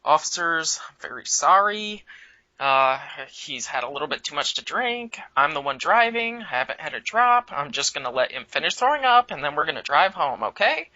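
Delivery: polite, lightly voiced white boy; a hint of a proper, apologetic nice kid; ultra-polite to the cops, lightly voiced; extreme white boy. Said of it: "I go extreme white boy".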